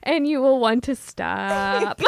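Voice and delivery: slow, laughing through words. Pretend. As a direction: try to finish while giggling. Laughing through mom role.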